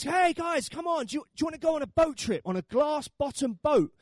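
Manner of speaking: high-pitched imitation of a tour tout; boatman's sales pitch. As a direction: coax tourists aboard, stretching out the attractions. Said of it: "Uh, he says".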